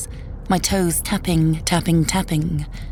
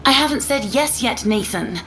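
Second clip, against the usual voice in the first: higher-pitched, firm telling-off; angry refusal; 4 semitones higher than usual. Acted. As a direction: lay down the law to the ex, short of yelling. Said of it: "She probably heard me yelling".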